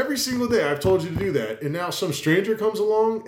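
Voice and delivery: high, strained fed-up father; hammed-up dad venting at his kid; exasperated dad. Dad fed up that his kid listened to a stranger, exasperated. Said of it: "I'm like".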